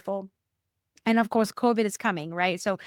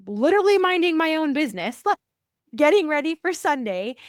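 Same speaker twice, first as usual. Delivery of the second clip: mock innocent; 7 semitones higher, 6 dB louder than usual. Real, not acted. Comic self-description, innocent tone.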